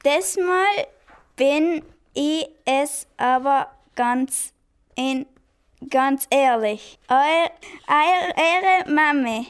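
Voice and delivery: halting, slow attempt at German dialect; practising German dialect. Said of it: "übte das Dialekt sprechen".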